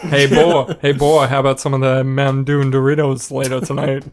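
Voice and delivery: put-on loud, leering "hey boy" call; sleazy come-on voice. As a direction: ham up a sleazy pickup line. Drunk hammed-up come-on.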